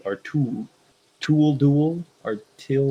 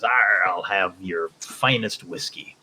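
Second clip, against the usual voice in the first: slow gruff pirate growl; a light pirate voice, drawn out; 3 semitones lower, slower than usual. Retold or imitated. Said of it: "looks at the bartender and says".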